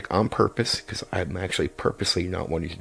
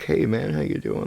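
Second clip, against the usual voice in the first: higher, friendly small halfling; nicer halfling voice; 7 semitones higher than usual. Shown as a demonstration. DM demoing a halfling greeting, higher and friendly. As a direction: lift the voice up for a small nice character. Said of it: "maybe if he played a halfling, like, a smaller character who's nicer".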